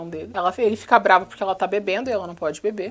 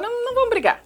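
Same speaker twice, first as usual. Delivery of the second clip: mock Christian; 12 semitones higher, faster than usual. Voicing Christian dismissing her.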